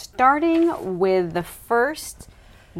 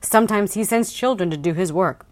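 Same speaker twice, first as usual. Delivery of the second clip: dramatic blurb reading. Acted. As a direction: read it like a thriller trailer. Reads book blurb dramatically.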